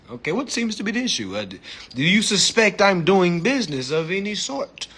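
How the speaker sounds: lightly hammed-up British politeness; put-on British accent. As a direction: question an officer in a mock London accent. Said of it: "talking like a British man".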